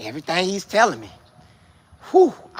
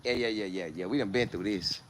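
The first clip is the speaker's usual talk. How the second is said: laid-back quote; 10 semitones lower, 15 dB quieter than usual. Retold or imitated. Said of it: "This year, they like".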